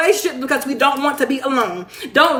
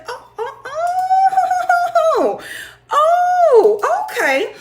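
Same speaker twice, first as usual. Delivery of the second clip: laughing fit; much slower than usual. Real, not acted. Laughing at the cookie comment.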